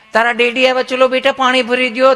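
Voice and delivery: a doting mom sweetly coaxing her son; sweet coaxing mother. Retold or imitated. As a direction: coo at little Chintu to fetch water. Mother repeats request.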